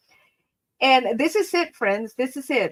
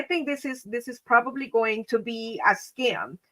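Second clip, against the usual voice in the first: whisper; 5 dB quieter than usual. Real, not acted. Private aside while on the call.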